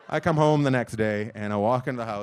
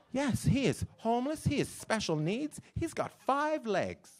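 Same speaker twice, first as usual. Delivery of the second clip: mock earnest wife; 10 semitones higher, 4 dB quieter, slower than usual. Wife voiced pleading.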